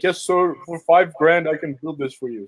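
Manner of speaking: lightly imitated Indian accent. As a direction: quote the developer with a touch of Indian accent. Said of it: "that was an Indian voice".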